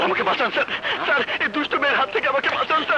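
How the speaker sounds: hammed-up frantic plea for rescue; fast, overacted cry for help; fake pleading victim. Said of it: "sir, কেমন অভিনয়?".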